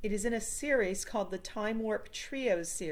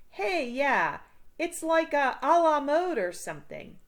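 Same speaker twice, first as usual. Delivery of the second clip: put-on higher and louder goofy kid; goofy Fred; 8 semitones higher, 6 dB louder than usual. A narrator's reading. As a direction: blurt it out like an eager clueless kid. Fred excited, confused word.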